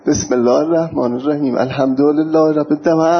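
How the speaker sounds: put-on Quran recited with an Isfahani accent. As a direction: recite it in lightly sung Isfahani Persian tones. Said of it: "فهمیدن من اسپانی هم". (تلاوت با لهجهٔ اصفهانی)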